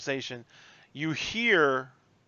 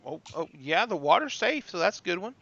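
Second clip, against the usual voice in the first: lightly voiced Southern waitress; Southern waitress accent; 4 semitones higher than usual. Waitress taking drink orders, light Southern accent. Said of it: "You throw on that accent".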